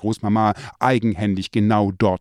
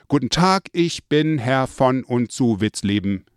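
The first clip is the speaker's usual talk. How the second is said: called greeting; 2 semitones higher than usual. Retold or imitated. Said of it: "Ich öffnete die Tür und rief".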